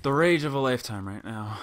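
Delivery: loud burst of real frustration; heated. Real, not acted. Player announcing own rage, heated and loud. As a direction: start loud and heated, then settle. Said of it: "I am so heated".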